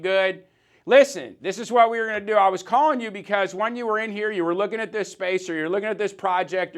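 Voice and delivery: mock upbeat salesman on the phone; enthusiastic sales call. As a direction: sell it like a friendly rep calling a client. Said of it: "follow up enthusiastically".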